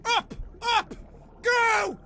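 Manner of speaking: high, urgent shout on "go"; urgent urging. Real, not acted. Player out of oxygen urging self upward, urgent. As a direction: yelp it out, racing for air. Racing to surface before air runs out.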